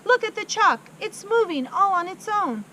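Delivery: very high, very loud shrieking; hysterical scream. Acted. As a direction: shriek in terror at the board.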